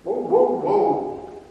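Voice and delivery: a high, loud startled whoa that breaks into breath. Retold or imitated. David hearing Goliath curse, startled. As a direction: pull up short in alarm. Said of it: "And David's like".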